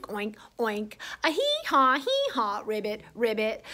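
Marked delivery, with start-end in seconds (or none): 1.2-2.6 falling hee-haw; donkey bray. Pretend. Reader makes animal sounds with the children, light braying. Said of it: "make some animal sounds with me". 2.7-3.6 low, soft ribbit; frog ribbit. Pretend. Reader makes animal sounds with the children, low frog croak. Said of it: "make some animal sounds with me".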